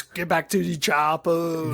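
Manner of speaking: lightly hammed-up action-hero impression; Arnold Schwarzenegger. Podcast host quotes an action star's scream, mock yell. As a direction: mock-scream movie catchphrase in an accent. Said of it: "Arnold Schwarzenegger comes out and screams".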